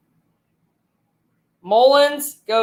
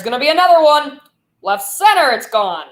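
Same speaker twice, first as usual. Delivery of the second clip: fast, rising home run call, much higher; excited call; 5 semitones higher, 4 dB louder than usual. Real, not acted. Caller calling a second homer, fast and high. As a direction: rush it as the ball takes off.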